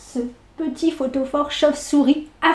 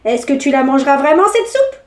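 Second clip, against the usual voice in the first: severe witch; 3 dB louder than usual. Acted. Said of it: "reprit-elle sévèrement".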